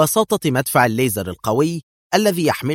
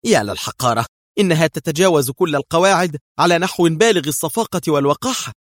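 higher, cutting indignation; raised, sharp angry protest; sharp outcry; 5 semitones higher, 4 dB louder than usual. A narrator's reading. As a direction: lash out at the enemy's insolence. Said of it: "صاحت بكل الحدة".

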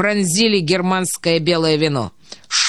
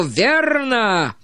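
retold shout; 3 semitones higher than usual. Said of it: "я не выдержал и крикнул".

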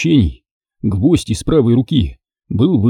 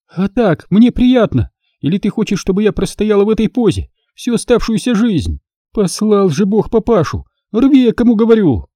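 higher, furious sarcasm; sarcastic scolding; 10 semitones higher than usual. Acted. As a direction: tear into him. Daughter yells at father.

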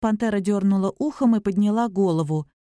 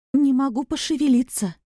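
complaining; 6 semitones higher than usual. A narrator's reading. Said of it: "сразу же пожаловалась Поля".

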